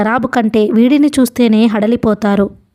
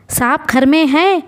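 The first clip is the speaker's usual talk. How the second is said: harsh voice; 5 semitones higher than usual. A narrator's reading. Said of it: "కర్కశంగా ఉన్న ఒక కంఠం".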